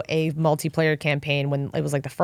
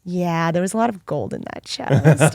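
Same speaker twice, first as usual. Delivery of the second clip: much lower, slow, drawn-out gloat; smug gloat; 4 semitones lower, slower than usual. Retold or imitated. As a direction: savor keeping the gold. Gloating over the gold.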